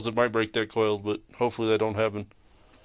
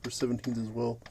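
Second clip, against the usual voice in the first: huffing and puffing; wheezing while lying under a car; out of breath; 7 dB quieter than usual. Real, not acted. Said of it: "sorry if it sounds like I'm huffing and puffing".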